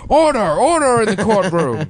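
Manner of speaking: booming call for order in court; shouting judge. Pretend. Mock judge calling order.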